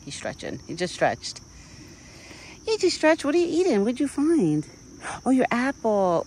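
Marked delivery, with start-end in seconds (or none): 2.6-3.2 much higher and louder delight; excited pet talk. Real, not acted. Repeated high to the deer. 3.2-6.2 much higher, louder eager questions; excited pet talk. Real, not acted. Excited talk to her deer.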